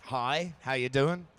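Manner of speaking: slow lilting elvish greeting; a touch of elf, slowed down; elfy way. Shown as a demonstration. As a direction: say hello like a graceful elf. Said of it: "in an elfy way".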